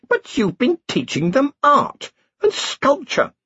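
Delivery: put-on high, slow, cheerful old wizard; happy Ridcully. A narrator's reading. Ridcully cheerfully explaining the lessons to the queen, slow and high. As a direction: beam it out, pleased with himself. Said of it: "said Ridcully happily".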